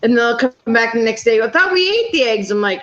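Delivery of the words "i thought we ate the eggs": put-on a higher, puzzled little-kid voice; imitating grandkid. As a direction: pitch up like a confused child. Grandkids puzzled by refilled drawer.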